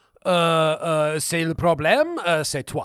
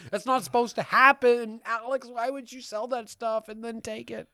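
mock pain; 3 semitones higher than usual. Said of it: "Can I have Jason back?".

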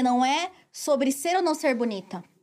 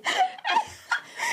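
a high burst of laughter. Real, not acted. Host laughing at her friend's face pose in a high burst. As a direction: crack up at a friend.

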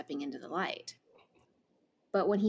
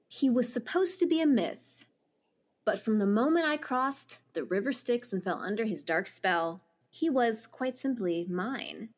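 reading a book blurb aloud; dramatic blurb reading. Acted. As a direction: read it like a back-cover blurb.

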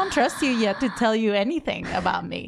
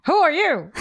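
higher, louder robotic challenge; computer voice; 6 semitones higher, 4 dB louder than usual. Pretend. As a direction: demand it like a suspicious computer. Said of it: "Let's pretend I'm the computer".

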